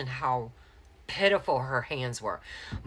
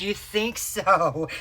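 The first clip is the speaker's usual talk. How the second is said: loud, drawn-out, higher retort; retold incredulous retort; 5 semitones higher, 5 dB louder, much slower than usual. Retelling the exchange after a painful hand exam, incredulous retort. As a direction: stretch it out slowly and loudly, imitating disbelief.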